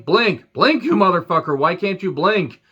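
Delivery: mock yell. Yelling at wrestler on screen.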